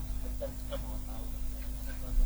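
fading away from the mic. Real, not acted. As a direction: voice trailing off, almost lost. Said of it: "Suaranya makin hilang".

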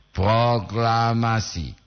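lightly voiced Soekarno, very slow, drawn out; a hint of Soekarno reading the proclamation, slowly; slow, lightly imitated Soekarno intonation. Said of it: "Begitu intonasi li Presiden Soekarno".

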